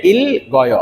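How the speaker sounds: "ইল গয়" with ল heard and গ carried into গয়; both consonants sounded. Shown as a demonstration. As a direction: say "ইল", then "গয়". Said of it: "দুটো এই বাচ্চিমে উচ্চারণ হবে".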